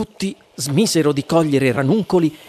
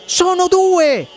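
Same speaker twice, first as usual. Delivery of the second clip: much higher, counting in rising amazement; excited shouting; 11 semitones higher than usual. A narrator's reading. The visitors count the little men, shouting excitedly. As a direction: crowd crying out in wonder. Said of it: "Si misero tutti a gridare".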